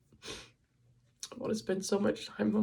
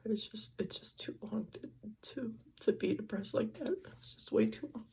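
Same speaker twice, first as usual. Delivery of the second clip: holding back tears, voice sinking to a whisper; crying; 2 semitones higher than usual. Real, not acted. Talking to the camera about her long depression, tearful. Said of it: "Sorry, I don't mean to cry so much".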